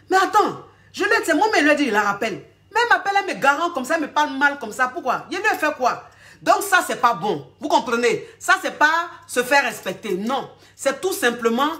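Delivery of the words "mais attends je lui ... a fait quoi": baffled man. Retold or imitated.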